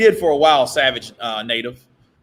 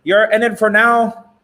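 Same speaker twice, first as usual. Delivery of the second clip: higher, louder catty taunt; bitchy Oscar voice; 7 semitones higher, 4 dB louder than usual. Retold or imitated. Mocking Oscar's taunt as more bitchy. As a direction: taunt with a little bitch behind it. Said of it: "Oscar sounds more like a kind of bitchy".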